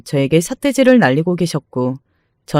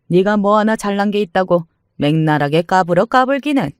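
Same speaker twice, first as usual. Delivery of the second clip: sneering mother-in-law. Acted. Mother-in-law dictating the birthday menu, sneering and bossy. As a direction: put her in her place and give orders.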